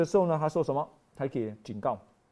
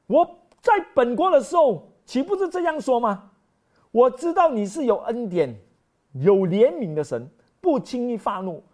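Jonah's angry prayer; 3 semitones higher, 5 dB louder than usual. Retold or imitated.

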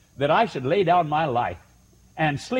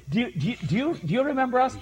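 eager questioner; 9 semitones higher, faster than usual. Retold or imitated. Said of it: "And they say".

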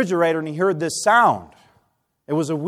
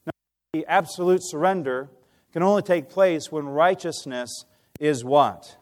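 ordinary talk

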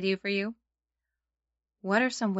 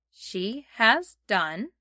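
very slow, each word spaced; slow phrase-by-phrase; much slower than usual. Shown as a demonstration. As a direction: say it slowly for kids to repeat. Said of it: "Let's try it".

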